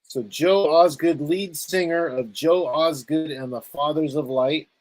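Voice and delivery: a light announcer's intro of the band, drawn out; slow band introduction. Shown as a demonstration. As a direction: announce the singer's name slowly, like a host. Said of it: "And, uh, repeat".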